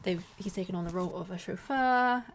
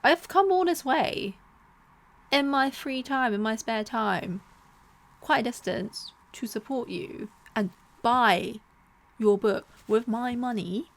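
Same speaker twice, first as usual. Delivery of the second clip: louder and higher, fed up; indignant outburst; 3 semitones higher, 5 dB louder than usual. Retold or imitated. To the friend who didn't care, indignant raised voice. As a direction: protest you came all this way, voice raised. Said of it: "And I'm like".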